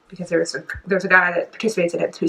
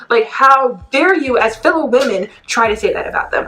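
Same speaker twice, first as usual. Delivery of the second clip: worked-up, raised-pitch outrage; triggered indignation; 4 semitones higher than usual. Real, not acted. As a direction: rant like someone personally offended. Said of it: "I was so triggered".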